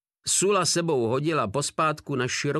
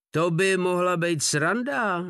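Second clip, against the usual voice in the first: roar; 6 semitones higher than usual. A narrator's reading. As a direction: bellow it with glee. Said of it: "zařval Drobeček".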